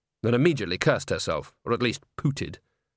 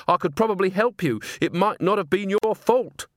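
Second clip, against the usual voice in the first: higher, anxious appeal; urgent pleading; 8 semitones higher than usual. A narrator's reading. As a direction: plead to talk the attacker down. Agnes pleads with advancing ghost.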